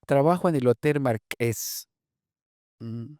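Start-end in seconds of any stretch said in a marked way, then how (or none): 0.1-1.9 "trabajo en el Hotel Marqués" with glottal catches; glottalized Yucatecan "Hotel Marqués"; glottal articulation. Shown as a demonstration. Lecturer giving an example of glottal articulation, glottalized. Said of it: "Articulaciones glotales, por ejemplo".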